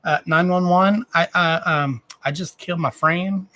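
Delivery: high, hesitant pretend caller; mock emergency call.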